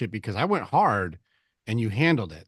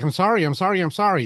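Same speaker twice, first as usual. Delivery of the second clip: higher and louder, begging sorry over and over; frantic caving apology; groveling apology; 7 semitones higher, 6 dB louder, faster than usual. Retold or imitated. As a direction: play the pushover who caves at once. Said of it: "if you go like".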